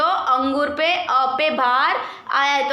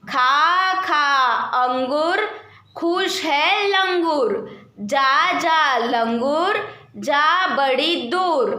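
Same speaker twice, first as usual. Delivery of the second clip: slow, sing-song rhyme recitation; poem read-through for class; 2 semitones lower, much slower than usual. Shown as a demonstration. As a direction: lilt each line for the children to follow. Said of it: "वापस एक बार हम read करेंगे". (कक्षा के लिए धीमा, लयबद्ध कविता पाठ)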